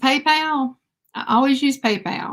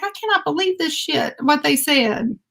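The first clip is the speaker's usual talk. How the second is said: retold anger; 4 semitones higher than usual. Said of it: "I was so mad right then".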